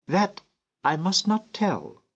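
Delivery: put-on high child's voice, keeping a secret; a child refusing to tell the stranger; secretive little girl. A narrator's reading. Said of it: "said the child".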